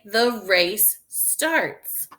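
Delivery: drawn-out, word-by-word read; slow reading aloud. Shown as a demonstration. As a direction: read it out slowly for the class. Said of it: "The words say".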